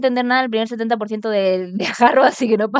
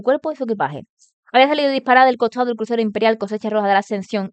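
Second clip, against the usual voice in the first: even, continuous storytelling delivery; story narration. A narrator's reading. Streamer reads the novel to viewers, story narration. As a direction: read the novel aloud.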